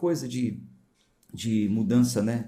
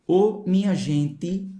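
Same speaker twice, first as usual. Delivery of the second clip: drawn-out, higher, louder northeastern "Ô, minha gente"; hammed-up Nordeste greeting; Nordeste accent; 6 semitones higher, 4 dB louder, slower than usual. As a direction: call out like a northeasterner, slowly. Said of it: "Aqui eles falam gente".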